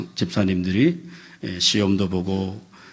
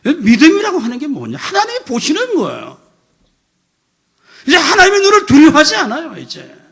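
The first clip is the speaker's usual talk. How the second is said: high, loud pulpit rebuke; fiery, shouted admonition; impassioned preaching; 10 dB louder than usual. Real, not acted. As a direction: thunder at the congregation, pitched way up. Preaches rebuke at full force.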